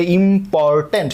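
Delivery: important broken into parts: "ইম্পর্টেন্ট" as im-por-tent; syllable by syllable. Shown as a demonstration. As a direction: sound out "ইম্পর্টেন্ট" in separate syllables. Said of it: "more syllable".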